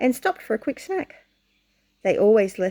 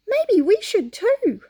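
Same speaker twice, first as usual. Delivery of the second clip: hesitant suggestion; 10 semitones higher, 3 dB louder, slower than usual. Acted. Haw suggests in story.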